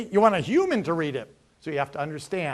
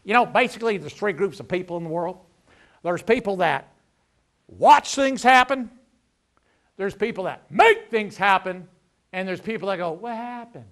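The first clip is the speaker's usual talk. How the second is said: a hint of a folksy Southern preacher winding up; mild mock sermon delivery, slowing on the key line; country preacher imitation; 3 semitones higher, 6 dB louder than usual. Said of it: "talk like a country western preacher".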